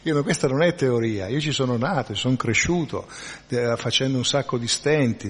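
hint of an older relative's exasperation; mild retold outburst. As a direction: voice the old relative getting worked up, half laughing. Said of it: "E lui sbottò".

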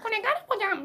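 high squeaky alien voice. Pretend. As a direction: play a goofy alien. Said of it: "宇宙人みたいな声になってるのに変換して".

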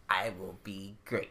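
soft unvoiced whisper; whispered boast. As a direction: whisper it like a secret dream. Dreaming aloud about winning at Evo.

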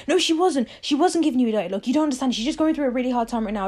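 high, fast, defensive protest; imitating a boyfriend snapping back in her defence. Boyfriend defending his girl best friend, fast and high. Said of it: "he gets all defensive about it and he's like".

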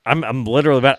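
usual speaking voice

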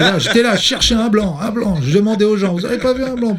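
laughing. Retold or imitated. Laughing retelling flea market.

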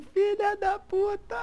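high, slow shouted curse. Retold or imitated. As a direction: bellow the curse across the square. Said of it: "manda um".

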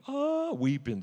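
loud high "uh" wailed out; hammed-up high weeping cry; mock wail. Acting out his weeping worship.

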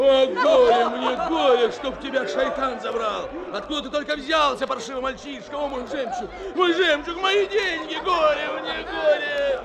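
hammy wailing over lost money; theatrical lament. Acted. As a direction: wail over the lost pearls. Merchant laments lost pearls. (театральный плач)

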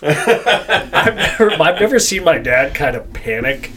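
laughing through the words; amused laugh in the voice. Real, not acted. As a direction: giggle out the start, then settle. Laughing while telling.

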